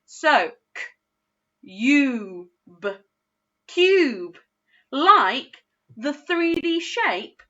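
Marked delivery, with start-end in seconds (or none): 1.6-2.9 K-U-B sounded out letter by letter; sounding out. Shown as a demonstration. Teacher sounding out again with the child. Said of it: "Let's do that one together". 3.7-4.4 Cube said whole, bright and higher; blended word. Shown as a demonstration. Teacher blending the word together with child. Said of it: "Let's do that one together".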